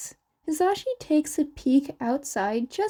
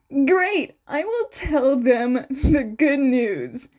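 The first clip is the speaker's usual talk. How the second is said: bright, louder happy burst with a laugh; excited; 5 dB louder, slower than usual. A narrator's reading. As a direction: jump in with glee. Happy Hazashi.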